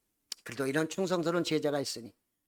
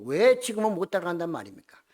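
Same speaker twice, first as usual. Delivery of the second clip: protesting; 3 semitones higher than usual. Retold or imitated. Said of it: "그가 항의하는 모습을".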